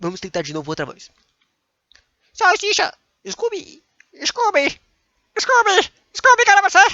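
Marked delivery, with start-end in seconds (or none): 2.3-6.8 very high, loud, stretched cartoon voice. Breaking off from reading legal text aloud to call for Scooby, bad Shaggy impression. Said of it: "eu não sei as vozes desses caras".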